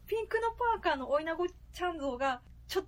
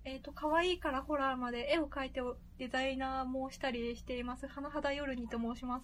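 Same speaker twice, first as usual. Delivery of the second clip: voice changer. Real, not acted. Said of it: "ボイスチェンジャー使ってるんでね".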